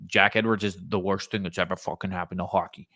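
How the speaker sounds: mock Boston accent. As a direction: imitate a griping fan with a touch of Boston. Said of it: "I don't know why it's a Boston accent".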